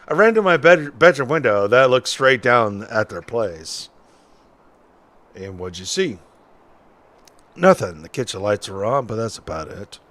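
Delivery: lightly voiced folksy witness; a hint of an old-timer telling his story; old-timey witness.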